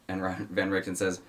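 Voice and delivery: ordinary talk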